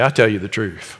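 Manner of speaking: solemn Jesus. Retold or imitated. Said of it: "Jesus would just say".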